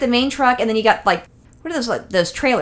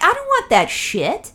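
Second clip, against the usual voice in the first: mock horrified; 9 semitones higher, slower than usual. Speaker's retort, high slow.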